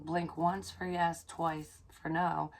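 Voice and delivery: spelled out slowly; each word placed carefully; slow, careful instruction to the light; slow, deliberate. Retold or imitated. Asking spirit for sign.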